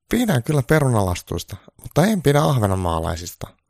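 a needy caricature of Trump; high Trump voice. Acted. Trump begging Santa for good news, high-pitched.

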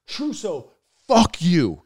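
high-pitched mock-angry cop retort; imitating angry cop. Cop at the car window to the driver, mock anger. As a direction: play the cop cursing out a driver.

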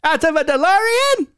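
very high, far-off cackling villain; very high cartoon villain voice; Skeletor-style impression. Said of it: "that guy".

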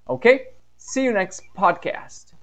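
loud high "Ok?", slow sign-off; cheerful goodbye. Real, not acted. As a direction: wave off the listeners. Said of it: "podcast goodbye". (despedida animada: "Ok?" alto, "See you" lento)

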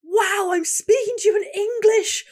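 put-on high, loud, thrilled drunk boast; giddy drunk shouting his English; drunk Dutch guy. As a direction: crow it like a proud tipsy farmer. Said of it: "this one guy was like".

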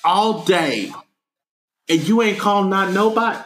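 high-pitched, incredulous telling-off; mock indignant scolding. Scolding parents whose son's been gone all day, incredulous.

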